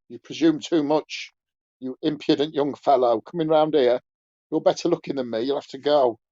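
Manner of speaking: put-on pompous old man ticking off a cheeky young fellow; indignant scolding.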